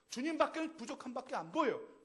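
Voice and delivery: 주님밖에는 stressed loud and high; emphatic. Shown as a demonstration. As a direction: drive the point home on 주님밖에는. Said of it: "repeated louder".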